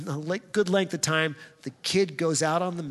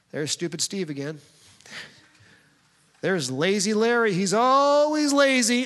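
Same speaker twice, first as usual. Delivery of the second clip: mocking nickname; 3 semitones higher than usual. Parent voicing mocking nicknames.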